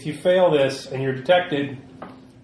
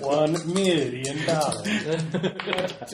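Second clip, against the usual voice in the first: laughing; 3 semitones higher, 3 dB quieter, much slower than usual. Acted. Mock villain demand.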